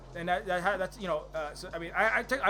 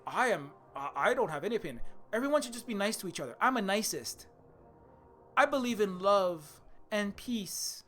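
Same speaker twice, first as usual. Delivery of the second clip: mocking neutral guy; 2 semitones higher than usual. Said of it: "this is the usual argument".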